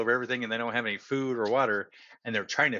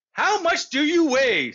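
higher, louder shouted question; 13 semitones higher, 5 dB louder than usual. Acted. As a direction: call it out eagerly across the ship. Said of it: "he shouted".

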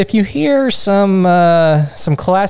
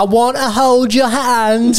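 slightly hammed-up Liverpool voice, pitched up; mock Liverpool accent; 5 semitones higher, slower than usual. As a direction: lightly imitate a Liverpool singer. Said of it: "obnoxious accents possible is the Liverpool".

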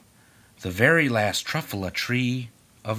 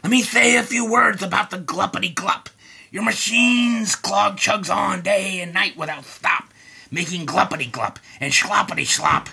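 snapping; 5 semitones higher than usual. Acted. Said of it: "snapped the Lorax, his dander was up".

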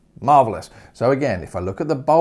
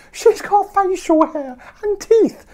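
high, loud and slow, appalled; mock horror; 6 dB louder, slower than usual. Real, not acted. Teacher describing the wolf as granny, slow and appalled. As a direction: drag it out in mock disgust.

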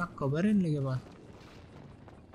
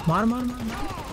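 high, loud repeated shoot cries; hammering the word at a teammate; excited yelling; 9 semitones higher, 3 dB louder than usual. Real, not acted. Gamer urging teammate to fire, high excited yells.

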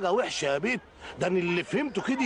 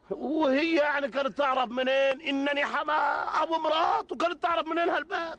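exasperated shout; 4 semitones higher than usual. Acted. Father defending himself, exasperated.

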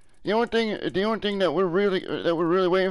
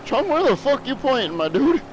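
surprised outcry; 5 semitones higher than usual. Real, not acted. Yelling at dog in game.

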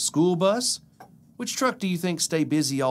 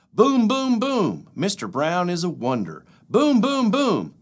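higher, louder booming; thunder booms; 4 semitones higher, 4 dB louder than usual. Acted. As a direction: boom it out like thunder. Thunder sound in picture book.

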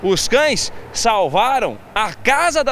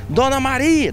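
higher-pitched imitated call; neighbour calling out; 6 semitones higher than usual. Neighbour calls the seventy-year-old owner, calling out. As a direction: hail her like a neighbour. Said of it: "Um vizinho fala assim".

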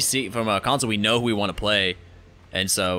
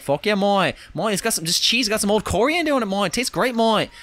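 put-on steal Chris's rat man accent for the raccoon druid; stolen rat man accent; 9 semitones higher than usual. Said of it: "I'm gonna give him that exact accent".

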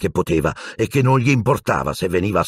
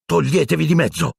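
shouting; 10 semitones higher than usual. A narrator's reading. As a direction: order your friends out of the way. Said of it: "gridò a Ron e Hermione".

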